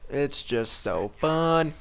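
"It's just so fun" stretched out slowly in mock delight; sarcastic drawl. Real, not acted. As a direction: drag it out as dripping sarcasm. Sarcastic repetition.

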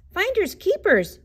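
high, excited storybook yell; bear's yell. A narrator's reading. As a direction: call it out high as a triumphant bear. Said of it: "yelled the bear".

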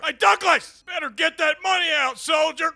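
barking army drill sergeant. Acted. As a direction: order the soldier like a drill instructor.

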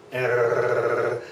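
"err" rasped way back in the throat, tongue still; throaty r. Shown as a demonstration. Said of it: "Way in the back of the throat".

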